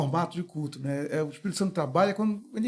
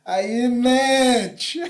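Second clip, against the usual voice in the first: loud heckle; 4 semitones higher, 7 dB louder than usual. Retold or imitated. Friend calls out mid-sermon.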